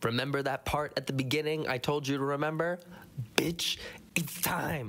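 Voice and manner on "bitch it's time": conspiratorial whisper; whispered teaser; dramatic whisper. Acted. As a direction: hiss it like a big reveal. Dramatic callback in edit.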